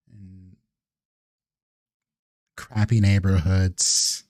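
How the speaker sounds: a hint of disdainful grandeur; persuasive vampire elder.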